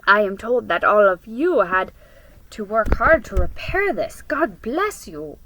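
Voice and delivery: lightly voiced old man, slowing at the end; a hint of a kindly elder blessing. Old man Garcia speaks.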